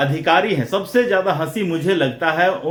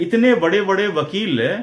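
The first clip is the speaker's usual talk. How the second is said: ordinary talk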